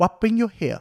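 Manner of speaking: heavy fake British accent, relaxed. Retelling an immigration officer's first question at passport control: thick British accent, relaxed. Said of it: "加上浓厚的英国腔".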